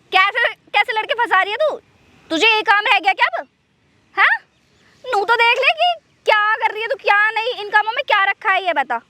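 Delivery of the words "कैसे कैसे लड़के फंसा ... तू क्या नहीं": indignant questions pitched up; fed-up telling-off; exasperated scolding. Acted. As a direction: demand an explanation, voice raised in pitch. Scolding her about boys.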